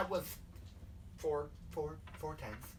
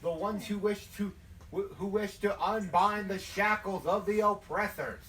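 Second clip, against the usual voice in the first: rousing southern preacher's oratory; southern hellfire preacher. Acted. A rebel leader recruiting a newcomer, southern hellfire preaching. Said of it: "like, the hellfire and brimstone thing".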